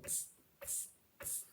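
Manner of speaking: breathy mocking tss from the monkeys; cheeky monkeys mocking the peddler's scolding; monkeys tsk-tsking back. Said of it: "stamped their feet back at him and said".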